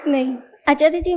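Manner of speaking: whispered through a giggle; laughing whisper. Real, not acted. Student laughing off the teacher's jab, whispered. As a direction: laugh it off under your breath.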